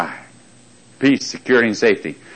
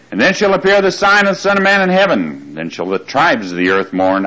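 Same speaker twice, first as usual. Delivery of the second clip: "sign" and "tribes" picked out while reading scripture; scripture reading with weight on "sign" and "tribes"; stress on sign, tribes; 3 semitones higher than usual. Shown as a demonstration. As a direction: read it out, leaning on "sign" and "tribes". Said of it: "I'm emphasizing signs and tribes".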